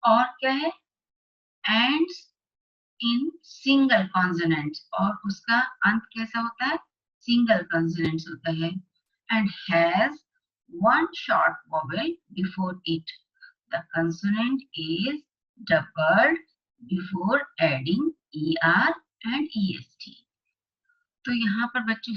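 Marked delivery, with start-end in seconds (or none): 1.6-4.8 slow, deliberate classroom dictation; slow worksheet read-aloud. Acted. Teacher reading the worksheet aloud to class eight students, slow and deliberate. Reads the grammar rule. 9.3-20.1 slow, deliberate classroom dictation; slow worksheet read-aloud. Acted. Teacher reading the worksheet aloud to class eight students, slow and deliberate. Reads the grammar rule.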